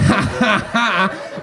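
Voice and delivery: a smug ha ha ha, imitated; mocking fake laugh. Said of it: "you don't get to go".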